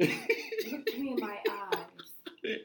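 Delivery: slow, eerie imitation of a spiritual lady; mock spiritual voice. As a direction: drag it out like a spooky medium. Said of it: "that's how she was talking".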